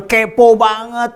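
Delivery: high, stretched mocking jab; mock criticism. Pastors dismissing Peter as too nosy, mock disapproval. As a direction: imitate scoffing pastors, drawing it out. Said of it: "seringkali pendeta-pendeta, hamba-hamba Tuhan berkata".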